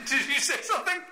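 put-on high, laughing retake of the girl's line; laughing repeat. Friend repeats the girl's beach line, laughing and high. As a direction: repeat her line while cracking up. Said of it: "She didn't say that".

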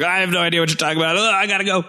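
fast, jittery mock panic; hurried, lightly nervous excuse; nervous brush-off. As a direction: rush it out like you want to flee. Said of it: "Very nervous".

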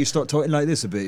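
lightly put-on British accent, quick; a hint of mock British. Shown as a demonstration. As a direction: slip briefly into a British accent. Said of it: "who's got a British accent".

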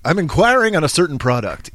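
lightly affected formal caller; put-on intellectual. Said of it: "I can sound very intellectual".

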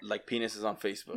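soft unvoiced cheeky aside; whisper. Real, not acted. Cohost slipping in a joke about embarrassing posts, whispered.

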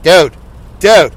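lightly put-on voice of another man; Alex Exum impression. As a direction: have a rough go at mimicking him. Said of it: "I want to do Alex, the Alex impression".

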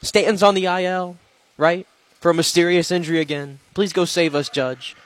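high, pleading mock Yankee fan; hammed-up desperate Yankee fan. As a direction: beg Judge to rescue the team, mocking them. Mocking Yankee fans pleading.

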